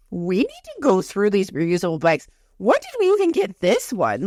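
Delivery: imitated bafflement, pitch jumping up on the question; confused husband. Husband sorting through reusable bags, mock confusion. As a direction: play a husband puzzled by the clutter. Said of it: "he was so confused".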